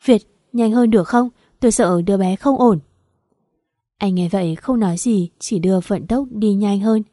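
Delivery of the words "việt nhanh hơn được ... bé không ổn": a touch of anxious urging, a bit louder; wife begging her husband to drive faster, mildly urgent. Acted. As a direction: press him to hurry, worried. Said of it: "thúc giục anh".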